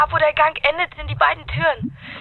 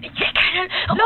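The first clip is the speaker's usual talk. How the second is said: gasping for air. Acted. Diver cannot breathe.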